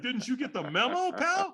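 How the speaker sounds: high, pointed retort; incredulous, snippy comeback; strong tonality. Retold or imitated. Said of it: "a pretty strong tonality with the guy".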